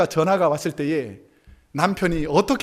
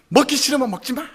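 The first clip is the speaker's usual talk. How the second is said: offended wife snaps back at husband's complaint; retorting; 6 semitones higher than usual. Acted. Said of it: "이렇게 말하고 싶지만".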